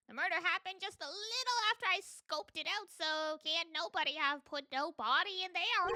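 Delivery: lightly put-on Southern accent, folksy; silly southern accent. Landlady warning the detectives, in a silly Southern accent. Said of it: "the silly southern accent".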